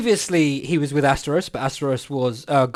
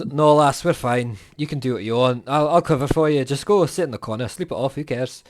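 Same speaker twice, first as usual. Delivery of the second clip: relaxed, lower, letting her off; easygoing old soldier; 3 semitones lower than usual. Acted. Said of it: "just goes".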